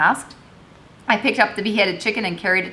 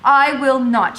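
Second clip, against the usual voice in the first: higher, louder refusal; shouting; 6 semitones higher, 7 dB louder, slower than usual. A narrator's reading. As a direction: shout her refusal at her husband. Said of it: "she shouted".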